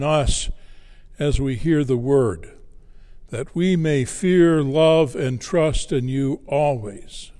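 measured, formal prayer before a sermon; projected prayer in phrases, settling on the Amen; spoken prayer. Acted. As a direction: lead the congregation in prayer. Leads opening prayer.

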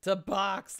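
high, slow drawn-out ring call; announcer summons. Acted. Streamer summoning a viewer to box, announcer call.

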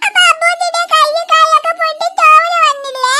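put-on tearful, pleading child demanding punishment; crying child. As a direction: whine through sobs. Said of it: "നീ ആദ്യം കരയണ്ടടാ". (അച്ഛനോട് കരഞ്ഞ് വാശി പിടിക്കുന്ന കുട്ടി)

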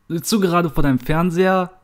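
high, urgent question down the phone; agitated call. Acted. Friend phoning Anna about the television, agitated. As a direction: call it out, all worked up. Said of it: "rief sie aufgebracht und viel zu laut".

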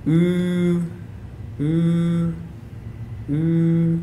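ooh as in moon, lips rounded; German long u vowel. Shown as a demonstration. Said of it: "similar to that found in English words moon".

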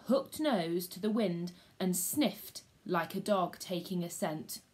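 lively read-aloud storyteller; story reading for schoolchildren; story narration. A narrator's reading. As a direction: tell it to the class like a gripping tale. Teacher reads story to class.

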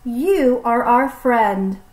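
slow, gentle reassurance; reassuring. Acted. Friends reassuring the snake, slow and gentle. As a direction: comfort a friend, slowly.

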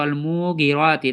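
মুগিরাতি with long মু, short গি; wrongly lengthened মু. Shown as a demonstration. Teacher imitating ordinary readers' mistake, wrongly lengthened syllable. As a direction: hold the মু of মুগিরাতি, hurry গি. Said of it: "তাই এটা হচ্ছে ভুল".

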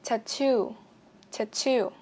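"Tattoo" weighted on "too"; stress on second syllable. Shown as a demonstration. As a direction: keep "Tat" light and land on "too" in "Tattoo". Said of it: "cho âm hai cho mình". ("Tattoo" nhấn vào âm tiết hai)

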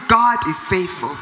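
declaration rising in force toward the end; building declaration. Shown as a demonstration. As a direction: build conviction with each repeat. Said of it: "Look at that situation and say".

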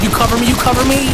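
high urgent call to teammates; cover me shout. Real, not acted. Calling to teammates mid-fight.

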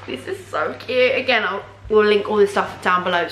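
talking through hiccups; hiccuping. Real, not acted. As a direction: hiccups breaking the words. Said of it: "my hiccups are so annoying".

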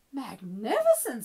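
emphatic, acted admiration; admiring princess. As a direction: praise it with gusto. Elizabeth cheers the dragon on.

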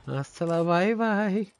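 movie tough guy. Retold or imitated. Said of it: "I'm like".

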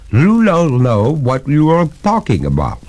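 lightly voiced water ghost, gurgling and haughty. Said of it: "said the ghost in a gurgling voice".

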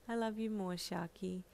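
soft, tender reply; teary smile. A narrator's reading. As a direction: answer quietly, lightly moved. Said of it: "replied with a teary smile".

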